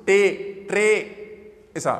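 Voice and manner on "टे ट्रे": टे ट्रे said with a strong English t; hard English t. Shown as a demonstration. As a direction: stress the hard t like table. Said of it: "जैसा कि English में हम word बोलेंगे टेबल". (टे ट्रे अंग्रेज़ी टेबल वाली ज़ोरदार ट)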